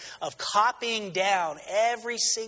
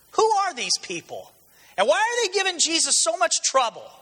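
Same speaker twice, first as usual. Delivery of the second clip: rhetorical question; 10 semitones higher than usual. Real, not acted. Preacher's rising rhetorical question.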